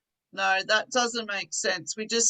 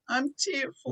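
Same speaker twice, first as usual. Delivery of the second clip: a little tearful; 2 semitones higher, 4 dB quieter than usual. Shown as a demonstration. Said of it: "a little bit of tears".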